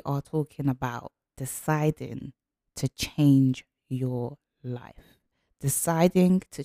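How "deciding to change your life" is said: slow, each word weighed; slow emphasis. Shown as a demonstration. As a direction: let the title land slowly. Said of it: "title phrase said slowly".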